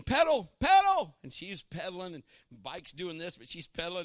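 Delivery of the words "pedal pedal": slow, loud cheering call; shouted encouragement. Retold or imitated. Father shouts to his daughter riding away, loud and slow. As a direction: yell it to your kid across the grass. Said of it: "I remember just saying".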